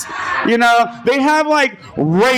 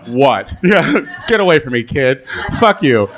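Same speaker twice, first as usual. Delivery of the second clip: laughing mock brush-off; 5 semitones lower than usual. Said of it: "And I was like".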